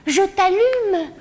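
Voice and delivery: very slow, drawn-out threats; slow menacing rant. Acted. Comedian warns her mother what she'd say, slow and menacing. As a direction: spell out every insult slowly.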